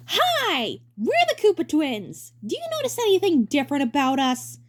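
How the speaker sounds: high, slow TV host voice; hammy stage actor. Acted. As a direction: sell it to the camera. TV presenter take two.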